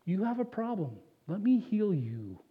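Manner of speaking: put-on God gently reassuring a sick child, softly; gentle healing voice. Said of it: "He looks at us and says".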